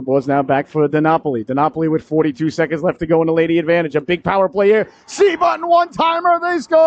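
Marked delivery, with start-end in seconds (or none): 5.1-6.8 high shouted goal cry, last word held long; excited goal call. Real, not acted. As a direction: erupt as the puck goes in.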